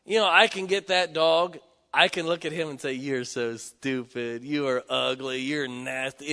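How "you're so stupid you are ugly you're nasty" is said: sweet tone to dog. Retold or imitated. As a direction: sweet-talk the dog, slow and gentle. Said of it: "You say it with the right tone of voice".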